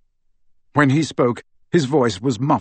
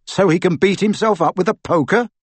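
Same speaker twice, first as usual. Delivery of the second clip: snorted retort; 7 semitones higher, 3 dB louder than usual. Acted. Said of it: "snorted Harry".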